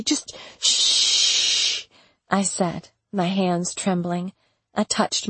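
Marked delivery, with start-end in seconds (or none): 0.0-1.9 breathless whispered shush; whispered hush. Acted. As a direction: hush him urgently under your breath. Begging Duke to be quiet.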